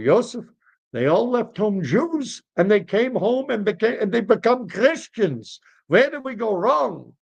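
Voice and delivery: high, swooping plea; pleading lament. Acted. Three fathers asking old rabbi's counsel, lamenting.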